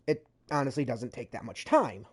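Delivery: normal talking voice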